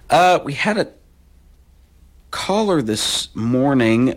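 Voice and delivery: words stretched by a yawn. Real, not acted. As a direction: talk slowly through a yawn. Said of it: "I don't know where that yawn came from".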